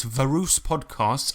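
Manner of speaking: "Varus" read slowly as "VAR-us"; deadpan reading of the typo "Varus"; misspelling read out. Retold or imitated. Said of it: "I think he means various podcasts".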